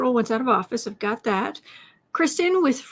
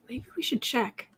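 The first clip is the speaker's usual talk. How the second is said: whisper; 7 dB quieter than usual. Real, not acted. Aside under breath.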